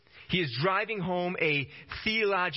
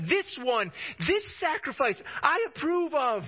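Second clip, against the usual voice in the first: voice of God; 7 semitones higher than usual. Acted. Preacher voices God approving Jesus.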